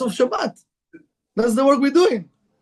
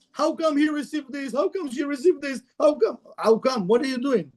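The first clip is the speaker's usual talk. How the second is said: higher-pitched imitation of a complainer; mock complaint; 4 semitones higher than usual. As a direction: protest as if you've been shortchanged. Acts out people complaining about unfairness.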